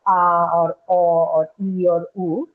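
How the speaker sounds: slow, held vowel sounds; pure vowels. Shown as a demonstration. Teacher lists pure English vowels for students, slow held vowels. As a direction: draw out each vowel, a, o, e, u. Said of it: "other pure vowels like".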